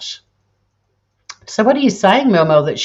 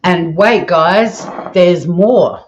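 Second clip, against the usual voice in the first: infomercial voice; much slower than usual. Pretend. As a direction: announce it like a TV ad. Infomercial catchphrase again.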